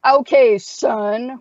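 loud, mocking drawl of okay son; sarcastic. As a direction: humor the old-timer. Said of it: "Jesse's like".

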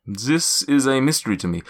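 put-on cloud giant in a light German accent; grand old giant, a hint of German in every word; a lightly German-accented giant sizing up the heroes. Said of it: "I'm gonna break accent".

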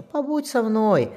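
gently coax, drawing the words out; affectionate. A narrator's reading. Admiral asking his boy to stay, affectionate. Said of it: "ласково ответил адмирал".

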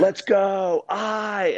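high, loud hyped call; rally the guys, pumped up. Retold or imitated. Guys shouting in the rain.

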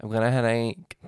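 talking through a nosebleed; stuffy from a bleeding nose. Real, not acted. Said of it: "My nose is bleeding".

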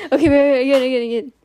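loud hurried wait, wait; urgent shout. Real, not acted. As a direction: call out to stop and redo. Urgent call to redo.

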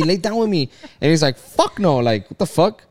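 ordinary delivery

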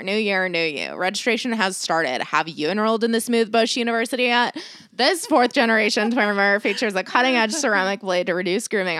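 upbeat sponsor read with a playful spin; podcast host reading the ad, a bit goofy. Acted. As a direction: sell it like a cheeky radio spot.

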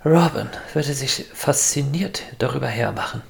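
shaky, breathless whisper; trembling voice. Acted. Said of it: "mit zitternder Stimme".

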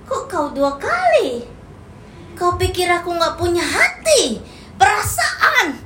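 slow, rising indignant reproach; hurt accusation. Acted. Lover confronting a cheating partner, slow and hurt. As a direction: drag it out, wounded and reproachful. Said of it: "Maka kita akan bilang".

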